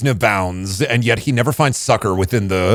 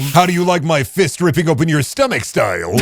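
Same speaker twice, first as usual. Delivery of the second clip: anime battle shout; 5 semitones higher than usual. Pretend. Mock anime attack callout.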